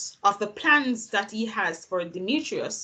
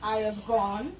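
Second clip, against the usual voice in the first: Puck; 7 dB quieter than usual. Acted. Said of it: "an enactment of Puck's soliloquy".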